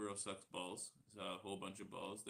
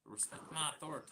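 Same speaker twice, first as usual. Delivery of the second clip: cartoon catchphrase voice; 7 semitones higher than usual. Catchphrase shouted out of nowhere.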